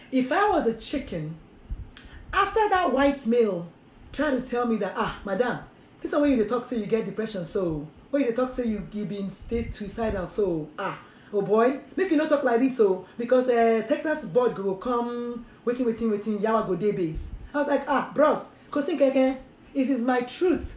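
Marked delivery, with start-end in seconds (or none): 4.9-17.3 lightly voiced board warning in Nigerian Pidgin. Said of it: "that is pure broken English". 17.9-20.7 casual Nigerian Pidgin reply to a bro. Retold or imitated. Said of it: "that is pure broken English".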